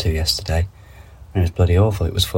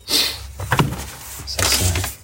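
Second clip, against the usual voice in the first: breathy, slow murmur to self; whispering at a seed packet label; half-whispered reading; 4 dB quieter, much slower than usual. Real, not acted. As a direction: puzzle it out under the breath.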